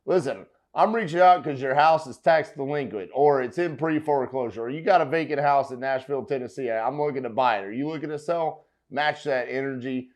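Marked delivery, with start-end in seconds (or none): 0.1-8.7 blunt pitch. Retold or imitated. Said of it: "just be like".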